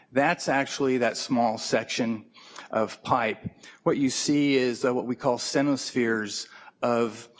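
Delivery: closer to the microphone; leaning into mic. Real, not acted. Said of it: "Could, could you lean into the mic?".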